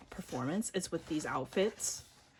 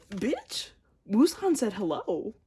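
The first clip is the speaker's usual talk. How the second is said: higher, louder thrilled squeal; giddy high loud gushing; excited; 6 semitones higher, 7 dB louder than usual. Real, not acted. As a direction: gush at the card. Thrilled at pull.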